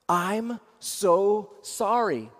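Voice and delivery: very slow, sincere condolence; gentle sympathy. Shown as a demonstration. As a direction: let each word land slowly. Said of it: "I got three words for you".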